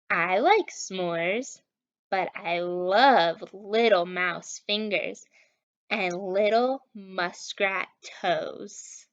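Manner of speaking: slow, lightly voiced monster. The speaker voicing the monster, slow and lightly menacing. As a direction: drag the words like a hungry beast. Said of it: "said the monster".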